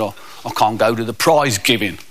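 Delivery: a hint of a sorry schoolboy; lightly voiced glum kid. Kid in detention answers a visitor, lightly voiced glum. Schoolkid laments missing prize giving.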